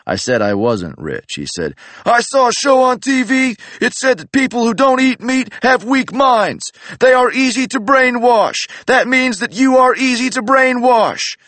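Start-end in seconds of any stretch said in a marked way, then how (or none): 2.1-11.4 high, loud, raspy-free macho wrestler bark; Chicano macho Randy Savage. Retold or imitated. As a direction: yell like a macho wrestler drill sergeant. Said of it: "He talked like a Chicano macho man Randy Savage".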